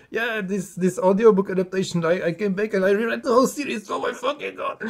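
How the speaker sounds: high-pitched excited rambling; acting out giddy enthusiasm; retold gushing. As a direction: imitate a teenage fan raving, voice climbing to the end. Retelling high-school enthusiasm to friend.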